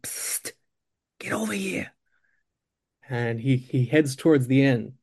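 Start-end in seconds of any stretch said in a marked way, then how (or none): 0.0-1.9 urgent, soft psst and call; hushed beckoning. Acted. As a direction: pull someone over with a secretive call. Furtive call from the inn.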